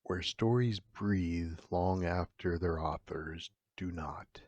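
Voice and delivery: slow whispered threat; eerie whisper. Acted. Horror host whispering to listeners, eerie and slow. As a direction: breathe it out like a secret.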